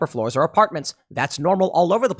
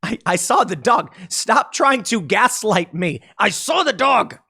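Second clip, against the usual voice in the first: exasperated insistence; 4 semitones higher than usual. Retold or imitated. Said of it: "And you're like".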